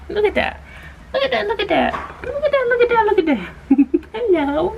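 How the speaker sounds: high voice breaking into laughter. Real, not acted. Laughing high while the puppy licks her face. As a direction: giggle it out at the puppy.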